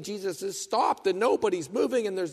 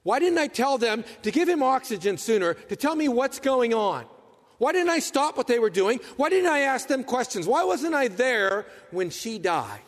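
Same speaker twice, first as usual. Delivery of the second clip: anguished regret; 6 semitones higher than usual. Retold or imitated. Mourner replays a loved one's death.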